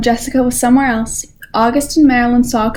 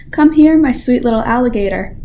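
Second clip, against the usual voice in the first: gentle voice. Acted. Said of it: "a voice as gentle as the whispering grass".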